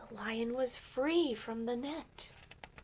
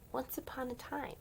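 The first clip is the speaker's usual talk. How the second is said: storybook opening; 5 semitones higher, 4 dB quieter than usual. Shown as a demonstration. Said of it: "I imagine it might say".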